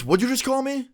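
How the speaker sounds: very high, incredulous imitation; mock offended outrage. Ex reacting to an insult, mock offended outrage. Ex offended at being called names.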